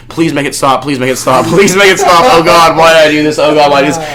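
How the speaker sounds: hammed-up desperate begging shout; retold screaming. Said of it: "kept screaming".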